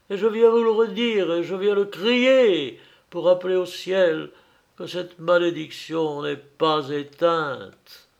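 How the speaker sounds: a father's curse, rising to a cry; accusing curse. Acted. Dying father teaching his son the curse, rising to a cry.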